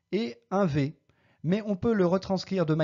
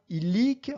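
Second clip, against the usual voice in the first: "illic" stressed on its last syllable, -LIC; final-syllable stress; 2 semitones higher than usual. Shown as a demonstration. Teacher giving a rare Latin example, "illic" stressed at the end. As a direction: lean on the second syllable of "illic". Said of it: "sur la première syllabe en partant de la fin".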